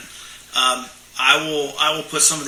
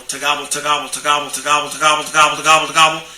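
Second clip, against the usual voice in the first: really fast; faster than usual. Shown as a demonstration. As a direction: rattle it off fast like a gobble. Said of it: "and I just say it really fast".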